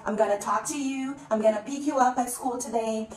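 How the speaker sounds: "gonna" as one merged word; linked speech. Shown as a demonstration. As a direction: run "gonna" straight into the next verb. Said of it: "eles juntam o going com to".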